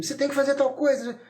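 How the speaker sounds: lightly acted top-down command; talking down. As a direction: imitate an adult ordering a child from above. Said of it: "olha de cima e fala assim".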